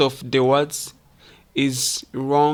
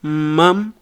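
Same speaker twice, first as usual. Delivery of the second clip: "Mom" with pitch gliding up; rising intonation; 4 dB louder than usual. Shown as a demonstration. Teacher modelling a child calling for attention, rising "Mom". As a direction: lift the end of "Mom". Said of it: "the intonation goes up".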